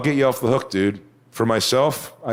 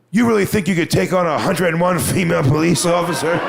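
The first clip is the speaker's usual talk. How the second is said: higher indignant take; 7 semitones higher than usual. Retold or imitated. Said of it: "she goes".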